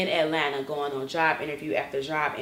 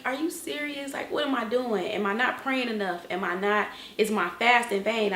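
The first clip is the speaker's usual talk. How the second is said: higher-pitched, exasperated pleading questions; retold frustrated plea, pitched up; 4 semitones higher than usual. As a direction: question God in mild exasperation. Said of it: "I was just so frustrated".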